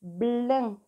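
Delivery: "Blin" loud, with a held l after the b; sounded-out syllable. Shown as a demonstration. Teacher dictates a harder syllable, "Blin" loud and drawn out. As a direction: stretch "Blin" so each sound is heard. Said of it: "un petit peu plus difficile".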